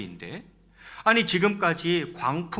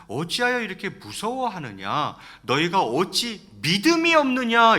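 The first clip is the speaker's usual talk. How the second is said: stern rebuke; 5 semitones higher, 5 dB louder than usual. Acted. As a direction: rebuke the disciples, building in force. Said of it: "예수님 뭐라고 꾸짖냐면". (꾸짖듯 점점 높고 크게)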